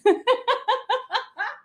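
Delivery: bright bubbling laugh, high up; high giggle. Real, not acted. Laughing before making tea.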